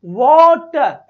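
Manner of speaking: वाटर drawn out slow and loud with a wide आ; wrong way, stretched. Shown as a demonstration. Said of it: "ऐसे थोड़ी बोलूंगा वाटर". (गलत उच्चारण, खींचकर बोला वाटर)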